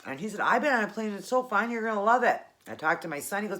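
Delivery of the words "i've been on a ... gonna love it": lightly voiced eager child, pitched up; a hint of a small boy cheering someone on; little nephew. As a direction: reassure in a higher kid's voice. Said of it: "my little nephew, Dallas".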